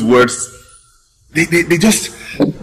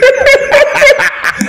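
joyful laugh. Acted. Overjoyed laughter.

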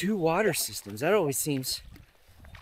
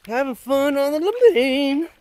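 higher, louder playful call; playful cheer; 8 semitones higher, 5 dB louder than usual. Acted. Playful sung-out river slogan.

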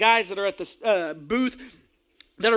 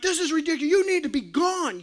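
angry rant; 5 semitones higher than usual. Retold or imitated. Slapping bench, yelling at ref.

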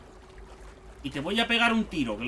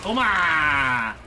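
battle shout; slower than usual. Real, not acted. Shooting enemy.

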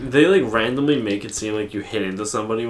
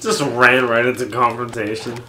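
speedrunner; 6 dB louder than usual. Pretend. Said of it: "Speedrun commentary?".

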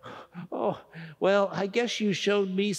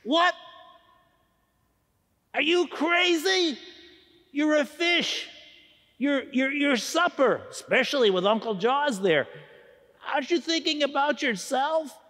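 alarmed; 5 semitones higher than usual. Acted. Turtle alarmed by risky plan.

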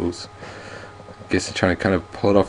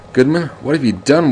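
higher, louder yell; a villain yells at the hero; 7 semitones higher, 5 dB louder than usual. Acted. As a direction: yell it at Goodman. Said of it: "William Mayfield yells".

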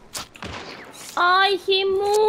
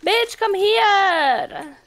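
angry drawn-out taunt; 4 semitones higher, much slower than usual. Real, not acted. Chasing enemy in game.

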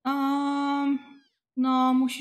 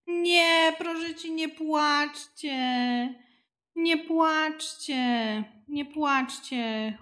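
higher, slow desperate begging; pleading; 4 semitones higher, slower than usual. Real, not acted. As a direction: plead with the crying babies. Begging crying babies to stop. (błagalnie, wyżej i wolno)

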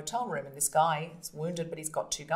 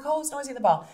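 lame excuse; 8 semitones higher, 5 dB louder, faster than usual. Retold or imitated. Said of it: "he's like".

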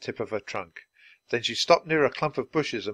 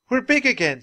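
surprised; 12 semitones higher, 5 dB louder than usual. A narrator's reading. Children grow back to size.

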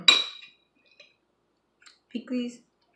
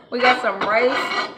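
laughing; 3 semitones higher, 9 dB louder, slower than usual. Real, not acted. Laughing while listing food.

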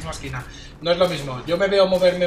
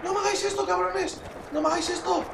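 tearful begging; 10 semitones higher than usual. Real, not acted. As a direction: plead desperately, losing strength. Begging as the match ends.

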